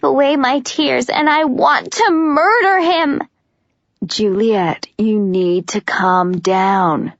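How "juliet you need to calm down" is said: soothing. Acted. Warner soothing hysterical Juliet.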